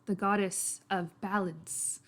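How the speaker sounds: attempted Cockney drifting towards Irish; Cockney-Irish accent. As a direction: explain the faith in a light Irish-Cockney accent. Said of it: "I'll try to get back to Cockney".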